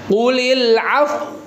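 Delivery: Qulil af- with lips pushed forward, slow; lips pursed. Shown as a demonstration. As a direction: round the lips into a pout on af-. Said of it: "Nggak usah ragu-ragu monyongnya".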